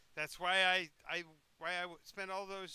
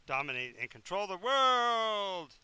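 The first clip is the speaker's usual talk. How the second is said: slow, louder evil declaration; villainous boast; 3 semitones higher, 8 dB louder, slower than usual. Acted. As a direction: relish every word of domination. Lich boasts of children.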